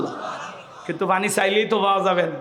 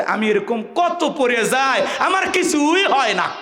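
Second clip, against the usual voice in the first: stretched-out, higher boastful reply; boy's bravado; 6 semitones higher, slower than usual. Retold or imitated. Boy tells the preacher his fall was nothing, acted bravado. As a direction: shrug off the fall with drawn-out, rising bravado.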